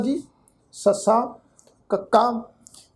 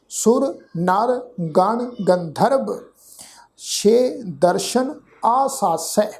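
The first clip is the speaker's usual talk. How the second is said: measured verse reading, phrase by phrase; deliberate teaching recitation; scripture recitation; slower than usual. Shown as a demonstration. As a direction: recite the sacred verse with a pause after each phrase. Recites the verse being taught.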